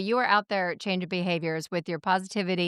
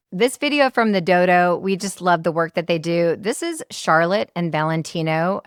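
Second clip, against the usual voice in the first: polished announcer read over music; podcast outro read. Acted. Host closing the podcast for listeners, announcer read. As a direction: sign off the show like a host.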